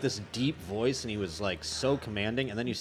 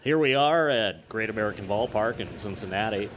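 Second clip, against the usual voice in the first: baseball announcer. Shown as a demonstration. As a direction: call the game like a radio announcer, drawing out Castellanos. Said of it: "it's like".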